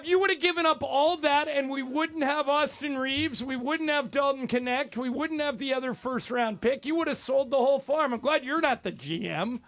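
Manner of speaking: worked-up sports-radio scolding; exasperated rant. Real, not acted. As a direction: hammer each point at the caller. Host argues caller down.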